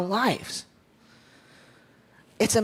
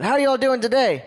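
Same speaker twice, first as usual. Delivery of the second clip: more energetic greeting; 3 semitones higher than usual. Shown as a demonstration. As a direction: fire up the crowd on the repeat. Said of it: "We can do a little bit of that".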